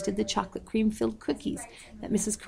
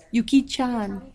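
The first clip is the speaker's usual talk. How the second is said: higher, drawn-out delighted call; exclaiming; 4 semitones higher, slower than usual. A narrator's reading. Old woman greeting the girl with a surprise, exclaiming. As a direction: call out the name in happy surprise. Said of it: "she exclaimed".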